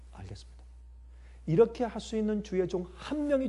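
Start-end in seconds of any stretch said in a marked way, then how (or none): 0.1-0.6 아주 작고 낮은 순종의 대답; 모세가 되어 조용히 따르듯. Acted. Acted Moses submitting to God. (나직하게 받아들이는 연기)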